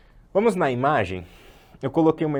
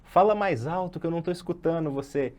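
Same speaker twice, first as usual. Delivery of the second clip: higher pleading student voice; whiny student request; 7 semitones higher than usual. Retold or imitated. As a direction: play the student begging the teacher to speak up. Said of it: "chega na aula de falar sobre isso". (aluno pedindo mais alto, em tom de reclamação)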